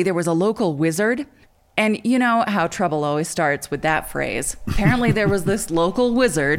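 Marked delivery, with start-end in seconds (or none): 4.7-6.6 laughing through the words; amused, giggling mid-sentence. Real, not acted. Repeats phrase, breaking into laugh.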